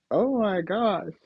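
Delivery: high, slow drawn-out oh my gosh; mock gasp. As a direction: act scandalised, stretch it out. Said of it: "so it's like".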